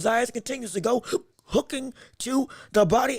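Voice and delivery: hiccuping mid-commentary; words broken by hiccups. Real, not acted. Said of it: "I got the hiccups".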